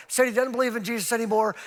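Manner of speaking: high, hurried mock crying; imitated tearful mother. Upset mother repeats her news to youth pastor, mock sobbing. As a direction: lightly mimic a distraught mom. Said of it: "She's just sobbing".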